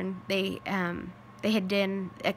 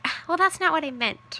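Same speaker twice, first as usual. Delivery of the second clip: high, louder flustered protest; defensive protest; 8 semitones higher, 6 dB louder than usual. Retold or imitated. Daughter protesting her joke was misread, high and flustered. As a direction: backpedal in a high rush.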